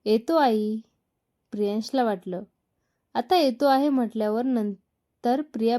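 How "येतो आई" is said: calling out. Acted. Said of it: "मोठ्यानं ओरडून म्हणाला".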